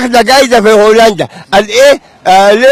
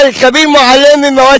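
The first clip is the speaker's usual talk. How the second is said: shouting. Real, not acted. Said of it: "بتزعق ليه طيب؟".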